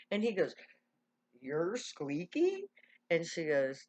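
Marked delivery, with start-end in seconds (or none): 1.4-2.7 slow, loud, drawn-out question; incredulous question. Retold or imitated. Man learns the girl's famous nickname, slow incredulous question. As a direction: stretch it out in acted disbelief.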